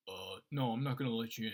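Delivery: low-pitched matter-of-fact refusal; lightly voiced bouncer saying no; unmoved bouncer. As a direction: turn them down like a doorman.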